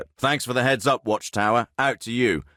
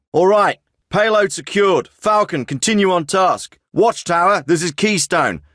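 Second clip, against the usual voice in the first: raised, high-pitched command voice; urgent orders; 6 semitones higher, 4 dB louder than usual. Acted. Commander hands mission to Raider two, urgent raised orders. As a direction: call out orders over the radio with urgency.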